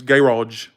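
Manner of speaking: imitated London GARAGE, stress on the first syllable; British pronunciation. Imitating a London friend, "Garage" stressed on GA. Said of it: "she talks like this".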